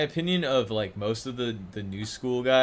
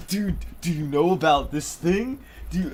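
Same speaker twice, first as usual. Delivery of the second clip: high, loud imitation of a guy heckling at a roast; imitating a loud comic; mock comedian voice; 6 semitones higher, 6 dB louder than usual. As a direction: play a rowdy comic leaning over someone. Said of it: "Like, just go".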